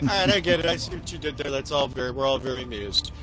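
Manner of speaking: dry, sinking in pitch and volume; unamused acknowledgement. Retold or imitated. Gamer answering teasing friends, dryly unamused. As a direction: concede the joke wearily, trailing down.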